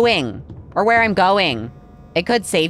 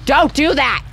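startled shout; 8 semitones higher, 4 dB louder than usual. Real, not acted. Scared by monster.

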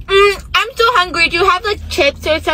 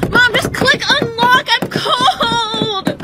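put-on whiny kid; 5 semitones higher, much slower than usual. Kid whining outside car.

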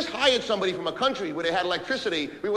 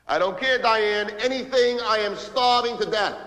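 raised, emphatic impatience; exasperated; 4 semitones higher, 3 dB louder, slower than usual. Acted. Starving boss to Diane about lunch, exasperated. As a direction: hammer it out, drawing out the last words.

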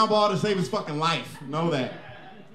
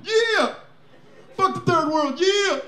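mock cheer; 9 semitones higher, 3 dB louder, much slower than usual.

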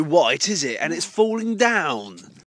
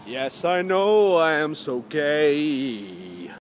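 slow camp voice; much slower than usual. Pretend.

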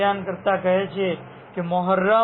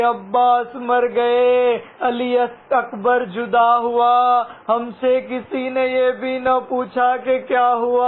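grieving verse; 4 semitones higher, 3 dB louder, slower than usual. Acted. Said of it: "શાયર મીર અનીસ કહે છે".

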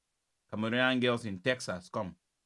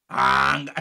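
loud; 2 semitones higher, 10 dB louder than usual. Acted. Shouting the word.

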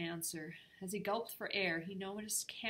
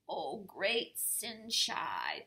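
whisper; 5 dB louder, much slower than usual. Acted. Peabody greets Nora reverently.

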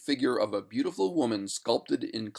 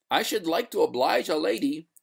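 higher, lilting politeness; courteous; 8 semitones higher than usual. A narrator's reading. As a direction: politely decline to oblige. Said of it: "returned the master courteously".

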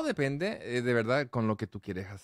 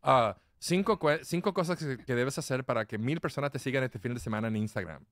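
mock marketing guru. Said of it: "el experto que te dice".

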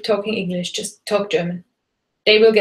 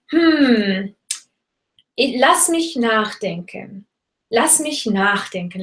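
thinking filler; slower than usual. Shown as a demonstration. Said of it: "a filler could be something like".

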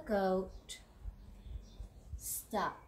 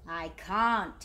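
snapping; 2 semitones lower, 5 dB louder than usual. Acted. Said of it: "he snaps".

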